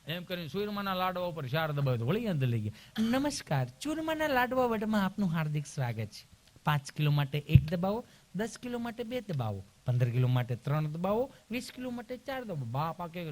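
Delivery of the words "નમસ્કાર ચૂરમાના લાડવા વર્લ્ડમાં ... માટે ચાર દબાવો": mock IVR recording voice; automated phone menu. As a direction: recite like a machine menu.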